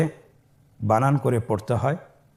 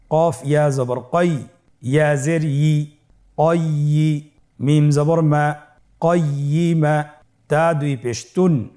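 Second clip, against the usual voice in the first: spelling drill. Shown as a demonstration. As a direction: spell it out for students to repeat. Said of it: "আমার সাথে বানান করে উচ্চারণ করুন".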